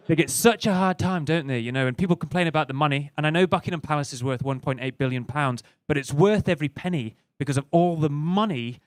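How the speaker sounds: lightly voiced posh English wife; a hint of a posh complaint; proud English wife. Wife sticking up for the royals to husband, lightly imitated posh voice. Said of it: "'cause this is bang on".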